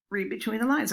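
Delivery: reads the title flatly, not getting it; puzzled reading of the title. Retold or imitated. Colleague reads a book title at a faculty meeting, puzzled. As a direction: say it like the words mean nothing yet. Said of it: "Mary Ann looked at the cover and said".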